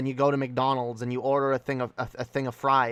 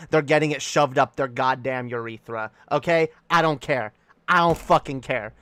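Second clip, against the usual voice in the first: mock threat; 4 dB louder than usual. Threat to fry askers.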